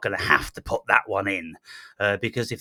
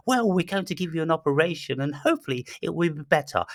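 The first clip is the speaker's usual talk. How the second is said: higher, quick sing-song reassurance; mock caring nurse; 6 semitones higher, faster than usual. Mocking a carer promising a patient an operation, quick high sing-song. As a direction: rattle off comfort in a sugary voice. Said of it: "I've never had anyone go".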